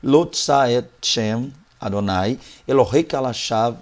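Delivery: slow Hebrew recital of Lo tsa et Shem Adonai; Hebrew reading. Shown as a demonstration. Teacher repeating the Hebrew verse to close the point, slow recital. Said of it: "só umas vezes pra fechar isso aqui".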